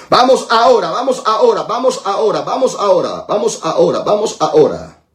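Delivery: urgent repeated chant, stepping down in pitch; insistent pulpit rallying cry; rallying preacher. Real, not acted. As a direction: drive the congregation on in rhythmic bursts. Rallying congregation to pray.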